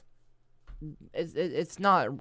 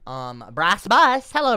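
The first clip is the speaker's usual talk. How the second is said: whisper; 7 semitones higher, 11 dB louder, slower than usual. Pretend. Greets chatter in whisper.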